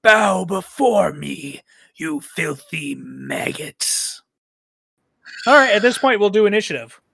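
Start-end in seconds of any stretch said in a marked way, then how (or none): 0.0-4.2 slow, menacing villain voice; low, slow, threatening hiss of a tyrant; sinister voice. Acted. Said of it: "says in a sinister voice".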